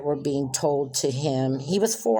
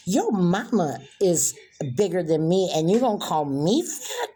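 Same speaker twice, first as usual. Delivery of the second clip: angry comeback; 3 semitones higher than usual. Retold or imitated. Stepmother snaps at stepson over fat remark, angry. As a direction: fire it back at him. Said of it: "I snapped".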